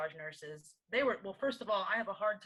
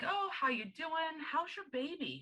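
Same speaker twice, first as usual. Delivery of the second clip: imitating a bubbly nurse, pitched way up; chirpy nurse; 9 semitones higher than usual. Nurse cheerfully greets patient.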